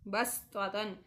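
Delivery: बस्ततन with a thin, whistling s; बस्ततन with a hissing s; thin whistling seen. Shown as a demonstration. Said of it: "बारीक और सीटी की आवाज़ निकाल कर".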